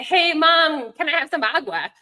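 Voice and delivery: put-on playful child slipping in "agua"; child mixing languages. Child asking mom for "agua" in mixed language, lightly voiced. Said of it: "if they would say".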